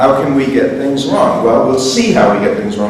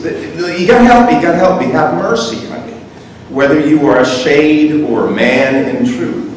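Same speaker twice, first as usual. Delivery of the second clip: urgent, higher-pitched plea; pleading; 4 semitones higher than usual. Acted. Dante begging a stranger for help, pleading. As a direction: beg for help.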